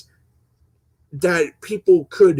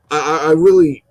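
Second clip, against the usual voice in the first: tripping over the first word; stuttering; 5 dB louder than usual. Real, not acted. Vlogger addressing his viewers, stuttering. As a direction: stammer on the opening word before getting going. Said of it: "I'm sorry I'm stuttering".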